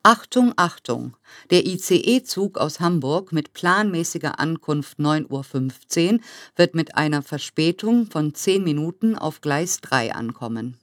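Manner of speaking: through a megaphone. Acted. Repeated station loudspeaker announcement.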